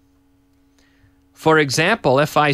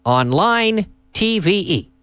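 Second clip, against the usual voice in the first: announcer call; 3 semitones higher, slower than usual. Acted. Show intro call, slow.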